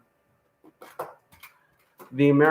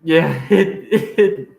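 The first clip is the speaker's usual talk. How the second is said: laughing; 2 semitones higher, 4 dB louder, much slower than usual. Real, not acted. Laughing at the joke.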